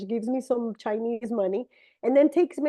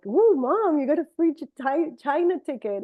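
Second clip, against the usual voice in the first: higher, louder gleeful cheering at mom; excited cheer; 4 semitones higher, 4 dB louder than usual. Retold or imitated. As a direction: whoop it to mom over a free ticket. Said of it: "But I'm like".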